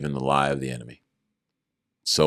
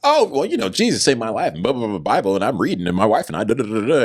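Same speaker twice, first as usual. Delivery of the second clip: much higher, louder excited babble; eager rambling; 7 semitones higher, 7 dB louder than usual. Retold or imitated. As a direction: tumble out enthusiasm. Excited answer about Jesus.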